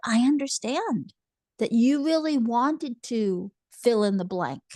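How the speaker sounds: put-on calm parent validating a child's upset. Shown as a demonstration.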